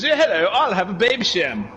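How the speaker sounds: lightly posh, prim order at the bar; a touch of posh, polite and out of place; posh person. Retold or imitated. Posh customer ordering in a tough bar, lightly posh voice. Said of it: "this posh person goes".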